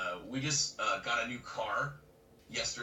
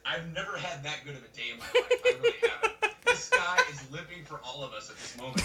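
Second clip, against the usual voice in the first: amused, laughter running through the words; laughing; 6 dB louder than usual. Real, not acted. Marveling to friends at the man's joy, laughing. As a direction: laugh as you say it.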